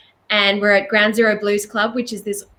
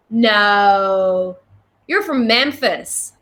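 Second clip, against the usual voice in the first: slow, drawn-out mock Southern accent; imitated Southern accent; much slower than usual. Clarksdale man disputes where the visitors are from, imitated Southern accent. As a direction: stretch it like a doubting Southern local. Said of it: "You did the accent".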